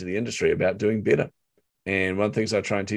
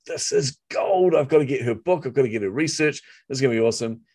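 excited; 4 semitones higher than usual. Retold or imitated. Retold excitement taking notes.

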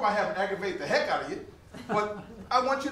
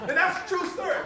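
higher, chuckling through the words; laughing; 6 semitones higher than usual. Real, not acted. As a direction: tell it while you can't stop laughing. Retelling embarrassing school memory.

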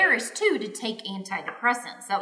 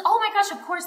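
high-pitched gushing imitation; delighted nurse; 11 semitones higher than usual. Nurse gladly agreeing to watch the baby, delighted. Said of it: "I loved her".

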